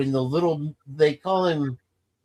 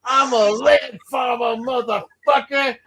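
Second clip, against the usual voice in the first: much higher, louder, slow yell; shouted movie line; 9 semitones higher, 3 dB louder, slower than usual. Retold or imitated. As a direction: bark it like a boy with a gun. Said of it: "He goes".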